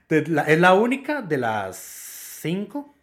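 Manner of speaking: slow, hiccuping through the words; fighting off hiccups mid-sentence. Real, not acted. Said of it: "perdón, me dio hipo". (hablando con hipo)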